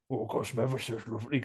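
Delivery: lightly done creepy possessed voice, a bit fast; a hint of a leering ghost, sweet-talking. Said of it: "he's got a, got a possessed voice".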